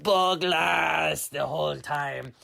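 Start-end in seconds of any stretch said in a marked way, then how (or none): 0.0-1.3 mild scream. Acted. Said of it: "And he screamed".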